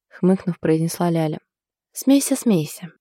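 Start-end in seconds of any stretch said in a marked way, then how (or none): 1.9-2.9 slow, resigned reply; mildly crushed, giving up; defeated. Acted. Beaten cook answers her laughing friend, understated defeat. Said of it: "поражённо ответила Анжела".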